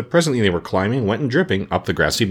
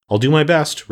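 cheerful, higher-pitched willingness; perky, good-natured promise; 5 semitones higher, 4 dB louder than usual. A narrator's reading. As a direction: agree brightly and eagerly, voice lifted. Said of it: "returned the sawhorse cheerfully".

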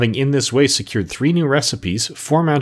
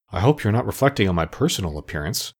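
grave voice; 2 semitones lower than usual. Acted. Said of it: "his grave voice".

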